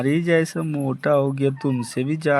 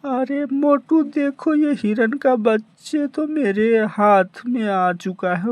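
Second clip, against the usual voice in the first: excited call; 9 semitones higher than usual. Acted. Excitedly shows baby deer.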